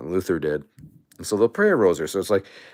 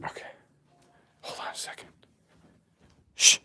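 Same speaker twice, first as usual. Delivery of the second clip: breathy off-mic whisper; 5 dB quieter, faster than usual. Real, not acted. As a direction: whisper it aside to someone nearby.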